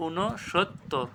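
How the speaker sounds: "ঊনসত্তর" softly and slowly, in pieces; correct pronunciation. Shown as a demonstration. Teacher answering own question, "ঊনসত্তর" slow and split. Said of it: "সঠিক উচ্চারণ কী হবে".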